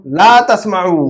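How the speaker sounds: drawn-out teaching model; slow correction. Shown as a demonstration. Teacher correcting a student's negative command, slow and deliberate. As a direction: say "ला तस्माउ" slowly, stretching it for the learner.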